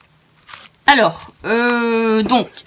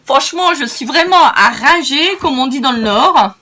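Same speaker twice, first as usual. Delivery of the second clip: loud, higher, amused self-mockery; still laughing; 4 semitones higher, 4 dB louder than usual. Real, not acted. Crafter mocking her own silly mistakes, still amused. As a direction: laugh at yourself while talking. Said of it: "je rigole de moi-même".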